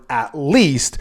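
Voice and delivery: "at least" set apart, weight landing on least; stress on "at least". Shown as a demonstration. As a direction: pick out "at least", leaning on least. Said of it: "I emphasize the word".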